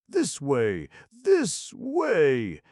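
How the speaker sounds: high, loud urgent call; exclaimed call. A narrator's reading. Colombe calling Ascanio from the window, loud and urgent. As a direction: call him over, urgent. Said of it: "exclaimed a voice".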